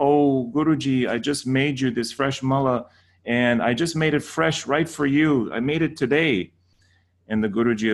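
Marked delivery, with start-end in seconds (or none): 0.1-6.5 higher, bright eager student gushing to the guru. Retold or imitated. Student offering a garland to the teacher, eager and higher. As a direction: gush over the gift like a devoted student. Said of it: "they say".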